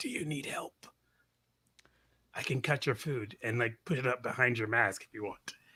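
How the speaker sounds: quiet, soft, hushed whisper. Retelling offering help to a man sitting very still in a mask, whispering. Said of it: "I'll just whisper".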